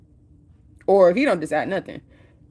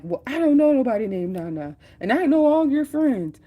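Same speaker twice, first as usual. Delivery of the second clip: wife's indignant retort; 9 semitones higher, 3 dB louder than usual. Retold or imitated. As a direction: stretch it out high and incredulous. Wife arguing with husband.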